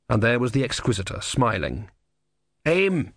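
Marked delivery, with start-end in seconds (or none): 2.6-3.1 understated high scream; mild scream. A narrator's reading. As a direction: cry it out high and indignant. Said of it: "screamed the voice of the tortoise".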